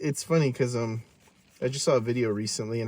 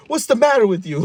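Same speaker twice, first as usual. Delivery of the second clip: high, loud mock outrage; retold indignant challenge; 10 semitones higher, 9 dB louder than usual. Kid arguing back at mom, loud retold exasperation. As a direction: throw it back at a parent, exasperated.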